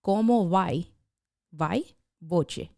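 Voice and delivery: "¿Cómo va? Va? Boche." tried in a Puerto Rican accent. Shown as a demonstration. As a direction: give it a Puerto Rican Spanish lilt. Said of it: "say it like a Puerto Rican".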